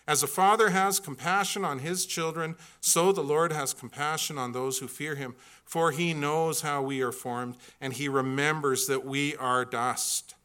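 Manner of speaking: earnest scripture recital; scripture reading. Acted. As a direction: read the psalm to the congregation. Reads scripture aloud.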